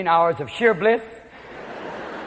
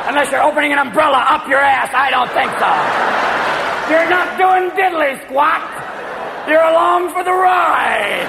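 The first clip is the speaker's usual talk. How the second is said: building rant; 3 semitones higher, 4 dB louder than usual. Real, not acted. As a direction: hammer the punchline home.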